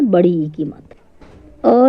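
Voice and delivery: slow, stretched teacher's "बड़ी ई की मात्रा" with "बड़ी" drawn out long; very slow, emphatic "बड़ी ई की मात्रा", each word stretched; slow, drawn-out emphasis. Shown as a demonstration. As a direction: spell out "बड़ी ई की मात्रा" slowly for the class, stretching "बड़ी". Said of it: "तो हमें वहाँ पर भी क्या भरना है?".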